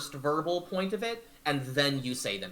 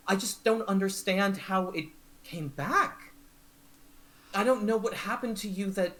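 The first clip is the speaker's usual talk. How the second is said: lightly raised, gentle reassurance; comforting lover; 5 semitones higher than usual. Acted. Palasha comforting Candlefoot, lightly raised and gentle. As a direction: soothe her, voice a little high.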